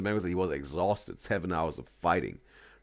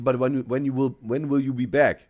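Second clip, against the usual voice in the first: anxious partner asking; 7 semitones higher, 8 dB louder than usual. Pretend. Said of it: "maybe they ask you".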